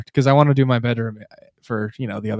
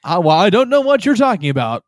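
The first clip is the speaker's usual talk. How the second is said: slightly higher, lightly put-on announcer; 4 semitones higher than usual. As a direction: play innocent in a light announcer voice. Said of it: "your announcer voice there".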